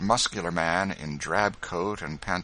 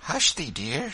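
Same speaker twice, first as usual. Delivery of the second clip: higher, kindly hush; tender, raised woman's voice; gentle hushing; 9 semitones higher, 4 dB louder than usual. A narrator's reading. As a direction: hush a dear friend gently. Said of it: "said Rachel gently".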